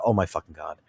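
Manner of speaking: low, soft groaned oh my God; mock despairing groan. Player mocking burnt-out grinders, low despairing groan. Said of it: "They're looking at it like".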